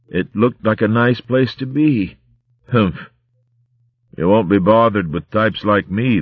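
fading, dying pirate rat voice; weakening as life slips away; bleeding out. Acted. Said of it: "her voice growing fainter as she replied".

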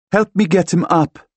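high, loud call for help; urgent request. A narrator's reading. Woman needs help lifting unconscious friend, urgent request.

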